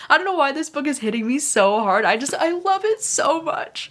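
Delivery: holding back tears. Real, not acted. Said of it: "I'm actually trying not to cry right now".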